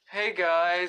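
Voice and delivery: put-on voice, half laughing; a goofy attempt at a superhero voice; Batman. Co-host asked for an impression, does it joking. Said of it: "Do your Batman voice".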